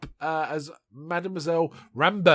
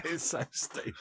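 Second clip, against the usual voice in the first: breathy aside, barely voiced; whisper; 12 dB quieter than usual. Real, not acted. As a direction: whisper it like a secret joke. Amused aside about the film.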